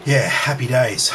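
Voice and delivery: ordinary talk, nothing marked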